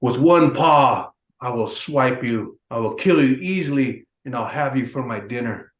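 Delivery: lightly voiced bear threatening the boy; menacing grizzly. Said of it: "he says".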